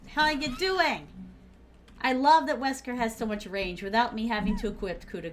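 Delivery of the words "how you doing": drawn-out flirty greeting. Acted. Greeting a survivor playfully.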